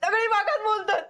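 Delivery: half laughing, half crying in hurt; tearful. Acted. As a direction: laugh bitterly through tears. Hurt sister-in-law during family quarrel.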